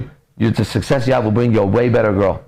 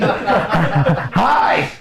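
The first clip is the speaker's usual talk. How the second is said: high, tail-wagging hello; eager puppy greeting; 5 semitones higher than usual. Acted. Smitten man greets woman next night, dog-like eagerness. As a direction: greet them like an overexcited dog. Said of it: "your tail's wagging".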